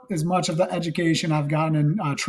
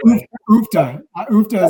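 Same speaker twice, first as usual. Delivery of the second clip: loud, high Wisconsin "oofta"; Wisconsin accent; 6 semitones higher, 9 dB louder than usual. Retold or imitated. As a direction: belt out the Midwestern "oofta". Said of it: "that's a word that stuck too".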